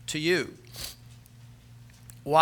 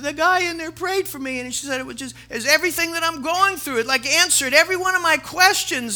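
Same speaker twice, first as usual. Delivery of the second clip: quoting the tearful nurse; 11 semitones higher, 4 dB louder than usual. Retold or imitated.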